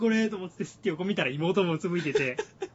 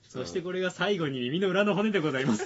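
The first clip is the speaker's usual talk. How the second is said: laughing; 3 semitones higher, 5 dB louder than usual. Retold or imitated. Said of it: "っておかしいだろうと".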